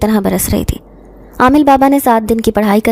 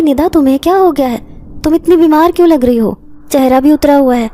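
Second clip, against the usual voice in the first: raised pitch, concerned friend asking; higher, shocked at how ill she looks; worried surprise; 4 semitones higher than usual. Acted. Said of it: "دیکھ کر حیران ہی رہ گئیں". (حیرانی اور فکر سے، اونچی آواز میں)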